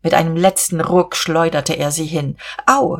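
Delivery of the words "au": high little ouch; mock pained yelp. A narrator's reading. Käthchen is flung down laughing, a high yelp.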